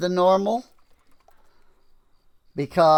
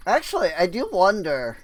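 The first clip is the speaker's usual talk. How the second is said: voice crack; 4 semitones higher, faster than usual. Real, not acted. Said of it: "Voice crack".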